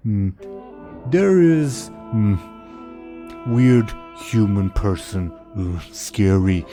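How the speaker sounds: slow, dim-witted ogre bellow; dopey cartoon bellow. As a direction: boom it out like a simple ogre. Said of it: "the ogre says".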